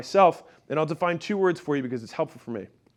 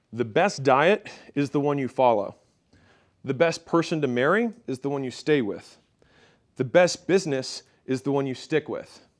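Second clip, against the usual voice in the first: reading aloud; 3 semitones lower than usual. Real, not acted. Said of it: "I'll read this to you".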